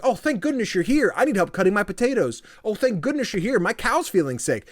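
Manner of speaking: high, pleading townsfolk; needy villager voice. Retold or imitated. Gamer voicing villagers begging for help, high and pleading.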